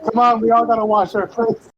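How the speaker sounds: play-acted call to the queue; stable boy calling out. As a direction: lightly voice an impatient kid rallying the others. Voicing boys queued to wash.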